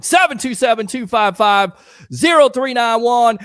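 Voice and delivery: phone number called out loud and punchy; announcer-style shout of the digits. Real, not acted. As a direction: belt the number out to viewers. Calling out phone number loudly.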